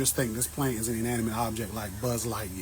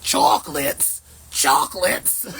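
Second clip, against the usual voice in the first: puzzled viewers; 2 semitones higher, 7 dB louder, slower than usual. Retold or imitated. Viewers hearing the name, mock puzzled echo. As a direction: play confused viewers repeating the name. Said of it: "y'all be like".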